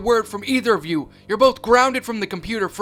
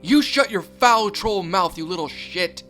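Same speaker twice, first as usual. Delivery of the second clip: louder, higher, slow hateful rage; vicious yell; 5 semitones higher, 7 dB louder than usual. Acted. Mother silencing her son as a troll, slow vicious yell. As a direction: snarl the insult down at him.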